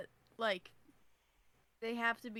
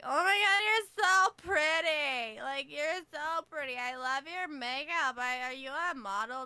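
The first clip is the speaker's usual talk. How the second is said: gushing fan; 2 semitones higher, 6 dB louder than usual. Retold or imitated. Women gushing at nightclub.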